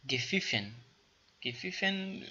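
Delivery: گفیفن said ge-FIFEN with f; teacher drill; German past participle. Shown as a demonstration. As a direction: repeat گفیفن clearly. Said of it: "گفیفن حالت گذشته شد".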